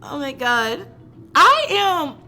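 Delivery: high, slow, breathy giggles; helpless giggling. Real, not acted. Reader swooning over the boy she loves. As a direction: let the giggles break the words.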